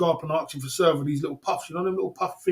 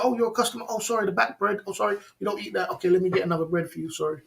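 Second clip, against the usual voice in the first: higher, fast, overly apologetic server; 4 semitones higher, faster than usual. Retold or imitated. Server apologising to a paying customer, eager and higher. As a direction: play the sorry server who fixes it quickly. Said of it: "You're supposed to say".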